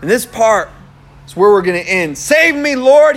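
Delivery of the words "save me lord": mild shout, higher and louder; pleading call, pushed up high; shouted plea. Acted. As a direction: cry out for rescue. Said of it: "he shouted".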